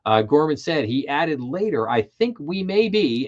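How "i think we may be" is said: "may be" lifted higher and leaned on; stress on "may be". Retold or imitated. Host quoting a bank chief's hedge, emphatic "may be". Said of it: "I emphasize the word maybe".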